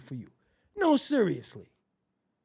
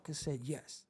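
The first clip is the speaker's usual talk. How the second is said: stunned whisper; 8 semitones lower, 14 dB quieter, faster than usual. Acted. Reacting to Swave taking trail mix, whispering. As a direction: breathe it out, stunned.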